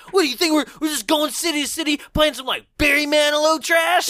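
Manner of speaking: indignant griping, pitched high; high-pitched, quick complaint in character; Raphael. Retold or imitated. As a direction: put on an exasperated turtle complaining. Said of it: "This is where Raphael is being like".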